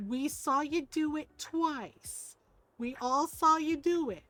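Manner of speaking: slow, deliberate, spaced-out words; gentle reproof. Retold or imitated. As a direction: patiently confront a small child. Retold grandmother reproving child.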